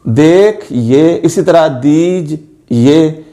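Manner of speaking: "देख ये" and "दीज ये" each said very slowly in two parts; slow syllables. Shown as a demonstration. Teacher reading example words to students in slow syllables. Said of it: "अलिफ की आवाज़ या वाव की आवाज़ नहीं आ रही".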